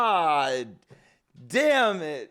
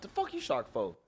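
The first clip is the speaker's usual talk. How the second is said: low muttered question; 12 semitones lower, 12 dB quieter, faster than usual. Real, not acted. Streamer reacting.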